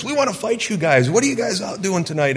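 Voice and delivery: high taunting yell from the other car; mock yell. Drunk guys in next car taunting: high mock yell. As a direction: jeer at them like drunk teens. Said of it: "they're yelling at us".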